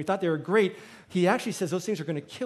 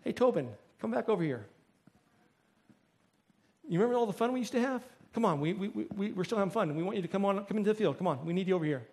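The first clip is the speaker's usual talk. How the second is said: softer, lightly coaxing call; a hint of a wheedling tempter; tempting voice; 4 dB quieter, faster than usual. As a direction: lure an old friend back over. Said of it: "we hear this voice".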